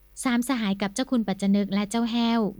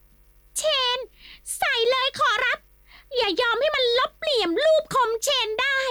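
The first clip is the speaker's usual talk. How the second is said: much higher, piercing, tearful-sounding yell; servant's squealing cheer. Acted. The servant Haeo screams support for his master, frantic squeal. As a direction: shriek encouragement like a frantic servant. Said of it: "ร้องตะโกนขึ้นบ้าง".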